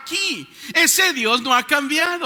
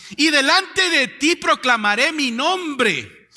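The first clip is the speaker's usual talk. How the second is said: proclaiming shout; 4 semitones higher, slower than usual. Acted. Pastor to congregation reading God's words, slow booming proclamation. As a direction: call the verse out to the whole church, slowly.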